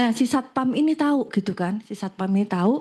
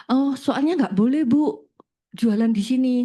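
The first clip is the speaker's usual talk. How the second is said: louder, mildly acted objection; teguran tiruan; 2 semitones higher, 5 dB louder than usual. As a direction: imitate a guard telling someone off, louder. Satpam menegur, diperagakan. (menirukan teguran satpam, agak keras)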